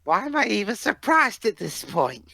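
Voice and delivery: put-on high-pitched southern accent. Co-host voicing a cartoon character, southern accent. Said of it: "nice southern accent there".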